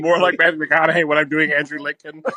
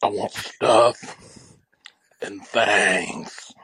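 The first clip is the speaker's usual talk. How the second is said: Andrew Lincoln; 3 semitones lower than usual. Acted. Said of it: "that's your Andrew Lincoln?".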